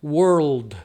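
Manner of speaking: slow "world" ending on a vowelless D; drawn-out "world" with a bare final D; mute D. Shown as a demonstration. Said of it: "Toda letra muda em inglês".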